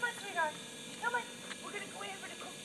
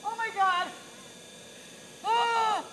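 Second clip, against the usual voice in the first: in ice cold water; 2 semitones higher, slower than usual. Real, not acted. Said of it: "I'm wet now".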